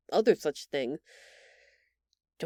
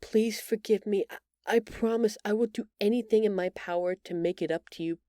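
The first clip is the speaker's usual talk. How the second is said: ordinary talk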